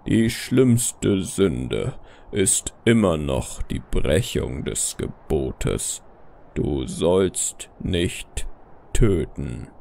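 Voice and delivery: very low, slow stern father figure; strenger Vater. Acted. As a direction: pronounce judgment in a deep, slow voice. Vaterfigur spricht in der Erzählung. (strenger, tiefer, langsamer Vater)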